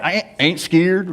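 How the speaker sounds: "I ain't, ain't scared" in a slowed Southern drawl. Shown as a demonstration. Preacher Southernizing the phrase for the congregation in a drawl. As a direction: squash it into three Southern syllables. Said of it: "Southernize it".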